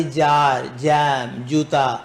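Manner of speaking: جار, جام, جوتا said to show the ج sound; sound demo. Shown as a demonstration. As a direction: give example words for the ج sound. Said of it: "جیم کی کیسے آواز آئے گی؟". (جیم کی آواز کی مثالیں: جار، جام، جوتا)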